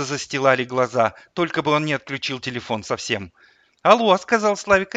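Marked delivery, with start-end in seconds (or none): 3.8-4.2 put-on high, loud little boy; child voice. A narrator's reading. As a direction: answer the phone as a small child. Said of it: "Он говорил в телефон детским голосом". (детский голос)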